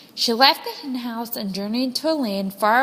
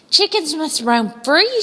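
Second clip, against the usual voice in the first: louder and higher, urging freedom; rallying call; 5 semitones higher, 4 dB louder than usual. A narrator's reading. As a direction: rouse the caged hens. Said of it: "she said".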